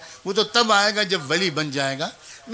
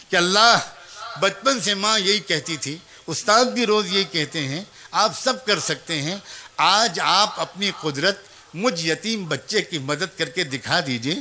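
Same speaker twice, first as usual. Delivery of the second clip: put-on pleading child's prayer. Child praying to God for help.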